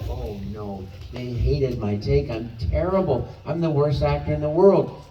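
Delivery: self-pitying actor's inner voice, played up; mock despair. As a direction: build from a dismayed groan to dramatic self-condemnation. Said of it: "we're so self-conscious".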